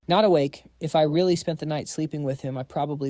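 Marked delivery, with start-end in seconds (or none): 0.1-0.6 louder, protesting repeat of Not awake; indignant echo. Acted. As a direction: throw the words back, offended. Echoing the tease indignantly.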